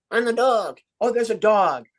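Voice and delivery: a hint of a two-voice dummy act; mild ventriloquist dialogue; oracle trick demo. Shown as a demonstration. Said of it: "so I tricked you".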